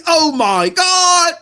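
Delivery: slow, loud "Oh my God"; drawn-out excited shout. Real, not acted. Marvelling at a game's 4K look, slow excited shout. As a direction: stretch it out in loud amazement. Reacting to Tomb Raider on 4K.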